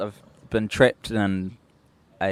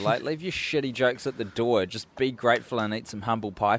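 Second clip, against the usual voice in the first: scolding hotel manager; 3 semitones higher than usual. Pretend. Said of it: "And then Samantha's like".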